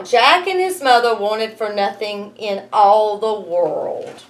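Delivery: ordinary delivery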